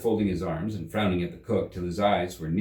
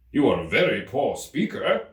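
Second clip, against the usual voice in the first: louder, curt put-down; dry King; 4 semitones higher, 4 dB louder than usual. Acted. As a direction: dismiss him drily.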